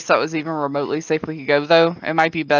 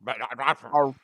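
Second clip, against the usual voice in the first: hyena noises; 5 semitones lower, 6 dB quieter, much slower than usual. Acted. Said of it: "hyenas don't sound like that".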